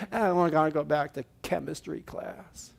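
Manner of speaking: mock gloom. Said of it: "You'd like".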